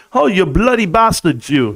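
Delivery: hammed-up mock British insult; exaggerated amateur British accent; bad British accent. Shown as a demonstration. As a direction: put on a clumsy British accent. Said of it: "You say".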